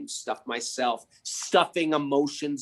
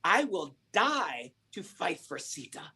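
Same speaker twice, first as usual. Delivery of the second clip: bold challenge; 5 semitones higher than usual. Acted. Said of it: "he said very boldly".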